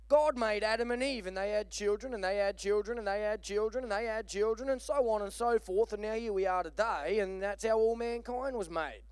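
lightly put-on English mother; English accent. Mother explains creation to her little girl, in an English accent. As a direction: answer in a mock English accent. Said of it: "Can I keep doing the English accent?".

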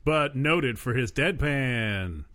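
slow flat dry delivery; deadpan. Pretend. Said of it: "'cause, like, deadpan".

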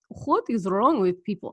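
a hint of mock Russian; accidental Russian accent. Imagined Luxembourg listener baffled by people, light accidental Russian accent. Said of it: "Why did I just go Russian?".

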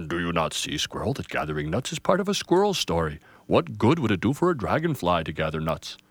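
put-on an old pine gently correcting; booming grandfather tree. Grandfather teaches.

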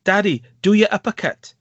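high mock kid's shout; lightly hammed-up daughter's cry, pitched high. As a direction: imitate a little girl calling to her dad. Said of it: "his daughter shouts out".

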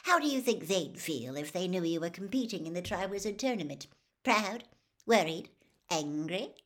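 coaxing gossip reporter, sugary; a reporter wheedling a boy into a scoop; Rita Skeeter voice. Acted. Reporter Rita coaxes Harry, lightly voiced and wheedling.

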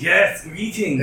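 slow, grand alien greeting; a high, loud, drawn-out hello; Mind Flayer doctor voice. Acted. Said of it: "He says".

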